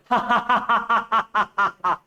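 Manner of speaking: a high-pitched demo cackle; high mock cackle. Shown as a demonstration. Teacher showing how Belinda giggled, high cackle. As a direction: cackle like Belinda shaking the house. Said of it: "बिलिंडा ऐसी कर रही थी".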